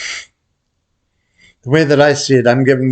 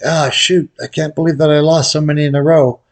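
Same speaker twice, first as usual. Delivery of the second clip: higher, hammed-up dismay at a losing streak; imitating a losing player, higher and dismayed; mock frustrated gambler; 6 semitones higher than usual. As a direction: play up the groan of bad luck, pitched higher. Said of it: "you're like".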